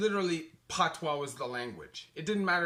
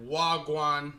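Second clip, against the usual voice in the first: Jamaican patois; 2 semitones lower, 4 dB louder than usual. Shown as a demonstration. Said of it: "a Jamaican influence on the lingo".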